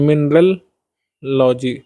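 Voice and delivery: "mineralogy" slowly in two parts, mineral, logy; shortened form. Shown as a demonstration. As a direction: draw out "mineralogy" with a single lo. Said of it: "इस तरीके से इसको बोलते हैं". ("mineralogy" को धीरे, मिनरल... लॉजी बोलें)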